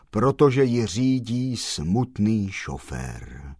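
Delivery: slow, mournful line. Acted. The black-clad gentleman answers the postman in a slow, mournful tone. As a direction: say it sorrowfully and slow. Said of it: "pravil truchlivě černý pán".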